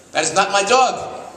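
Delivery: put-on high, slow, indignant old lady; old lady's protest. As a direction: play a shocked old woman denying the dog. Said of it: "Mister Goldberg says".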